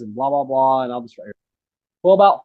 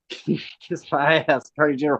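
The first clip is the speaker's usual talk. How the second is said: slow quoted reply. Retold or imitated. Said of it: "and they said".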